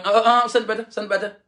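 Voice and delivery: high, loud protesting wife; mock refusal. Wife rebuffing her husband, high indignant protest. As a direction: push him away with a whiny "don't touch me".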